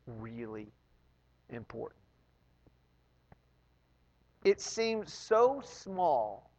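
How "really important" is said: much softer, almost a breath, for emphasis; dramatic hush. Acted. Preacher to congregation, hushed emphasis. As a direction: sink the words to a near hush.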